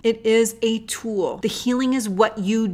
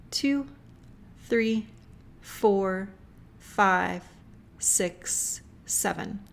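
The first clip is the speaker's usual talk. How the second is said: guided breathing meditation. Acted. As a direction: calmly guide the listener's breathing, unhurried.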